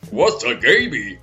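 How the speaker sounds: a hint of a puzzled gruff executive; Lee Iacocca quote. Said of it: "and Lee Iacocca goes".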